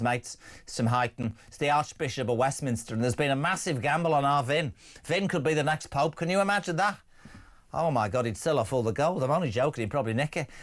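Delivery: lightly put-on Scouse; playful Liverpool accent. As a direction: slip into a jokey Scouse voice. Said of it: "Why am I doing that accent now?".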